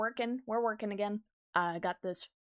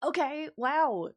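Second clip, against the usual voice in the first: mock offended; 4 dB louder than usual. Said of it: "I'm like".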